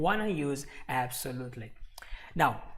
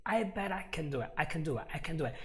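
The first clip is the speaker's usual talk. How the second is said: CAN unstressed, softer, weight on DO; light CAN before a stressed DO; 5 dB quieter, faster than usual. Shown as a demonstration. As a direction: skim over CAN, land on DO. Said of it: "There's no stress on the word can".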